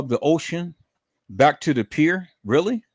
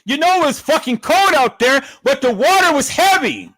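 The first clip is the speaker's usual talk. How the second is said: mild anger; 11 semitones higher, 3 dB louder than usual. Real, not acted. Furious rant about the rescue story.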